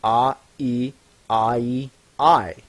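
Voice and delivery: "A, E" then "I, E" blended into "I"; vowels into a diphthong. Shown as a demonstration. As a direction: run the two vowels together into one "I". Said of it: "put A and E together to form I".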